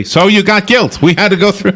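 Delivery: put-on high sing-song Jewish accent. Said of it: "trying to do my best Jewish accent".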